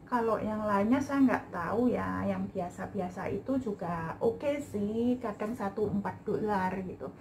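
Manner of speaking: muffled behind mask; speaking with mask on; through a face mask. Real, not acted. Seen 1: white mask covers mouth and nose throughout; references unmasked.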